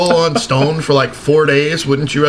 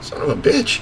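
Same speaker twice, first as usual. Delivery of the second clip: half-laughing curse at the memory; amused mock-frustrated swear; laughing exasperation; 6 semitones higher than usual. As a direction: curse it while cracking up. Retelling his exasperated reaction.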